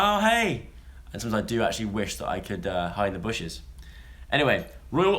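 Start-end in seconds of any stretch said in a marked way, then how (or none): 0.0-0.7 high, bright forced hello; mock-cheerful hi to an unwanted chatter; fake cheery greeting. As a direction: greet someone you'd rather avoid with a put-on smile. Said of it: "I'm usually like".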